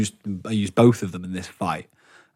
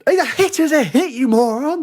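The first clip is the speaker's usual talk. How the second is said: high, loud, slow indignant yell; retold shout; 3 dB louder than usual. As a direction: yell at him, outraged he stabbed you. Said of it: "shouting at this guy".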